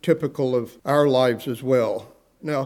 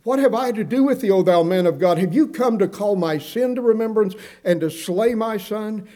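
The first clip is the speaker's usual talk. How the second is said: higher and faster, a stunned mother's cry of blame; shocked, grieving widow; 6 semitones higher than usual. Retold or imitated. Preacher voicing the grieving widow to Elijah, higher and stunned. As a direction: read the widow's words as if her life is over. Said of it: "Her life is over as far as she's concerned".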